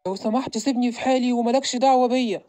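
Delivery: loud, snapping outburst; angry yell. Acted. Ali yelling at his stepbrother to leave him alone, loud and angry. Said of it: "صوت علي بيزعق؟".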